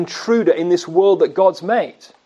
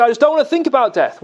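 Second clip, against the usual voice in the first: higher, quick dismissive voice; imagined objector; 6 semitones higher, much faster than usual. Retold or imitated. Preacher voices a listener avoiding death, mild. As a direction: brush it off lightly. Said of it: "You might say".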